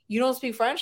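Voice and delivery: lightly imitated French accent; mock French accent. Friend retelling an actor's interview answer, mock French accent. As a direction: put on a slight French accent. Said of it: "in a French accent".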